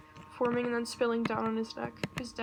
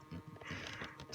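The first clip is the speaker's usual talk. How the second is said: laughing dismay; 6 dB louder than usual. Real, not acted. Reader reacts to the plot twist.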